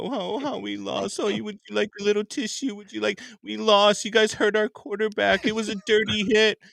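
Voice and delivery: mock-whiny fan, pitiful and put-on. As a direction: whine like a sore loser. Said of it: "Packers fans this week crying about".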